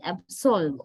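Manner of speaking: absolve with a full O in SOLVE; full O sound. Shown as a demonstration. Teacher explains the verb's vowel, absolve with full O. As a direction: say absolve with the O unreduced. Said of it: "O sound".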